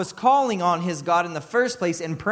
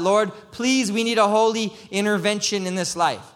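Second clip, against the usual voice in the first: raised, louder plea to God; begging; 4 semitones higher, 4 dB louder than usual. Acted. Believer agonizing in prayer for intervention, begging. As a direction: beg with urgency, pitched up. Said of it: "agonizing and begging".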